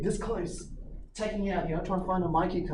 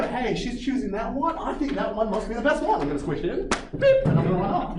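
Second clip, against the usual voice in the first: mock old lady; 8 semitones higher, 5 dB louder than usual. Voicing the old lady's thinking.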